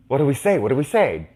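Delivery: put-on two kids panicking over what to say; nervous whisper-argue.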